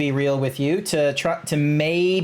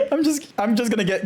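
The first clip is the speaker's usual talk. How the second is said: laughing; 5 semitones higher, faster than usual. Real, not acted. Still laughing while rating.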